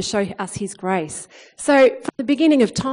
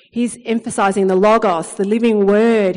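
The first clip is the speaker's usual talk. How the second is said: building proclamation; 6 dB louder than usual. Acted. Building emphasis in sermon.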